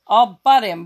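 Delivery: put-on a child's mild bleat; bleating goat. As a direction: butt in loud like a cocky goat. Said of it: "bleated the goat".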